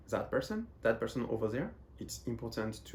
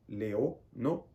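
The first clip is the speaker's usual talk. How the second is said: slow demo; slower than usual. Shown as a demonstration. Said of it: "Leo is the name of my school".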